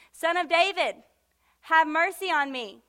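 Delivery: loud imitated plea; crying out. Blind Bartimaeus calling to Jesus, crying out. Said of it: "he cried out".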